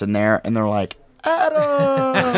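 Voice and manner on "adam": high laughing call of a name; excited shout. Retold or imitated. Crowd of cops calling out his name, high and laughing. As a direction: cops cheering his name across the room.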